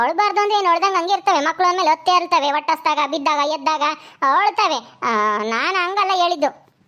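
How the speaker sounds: protesting mother. Acted. Acts mother defending her words. (ಸಮರ್ಥಿಸಿಕೊಳ್ಳುವ ಅಮ್ಮನ ಧ್ವನಿ)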